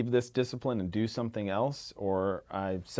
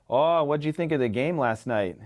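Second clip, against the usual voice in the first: put-on Midwestern accent; 4 semitones higher than usual. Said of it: "I'm trying to do my best Midwestern accent".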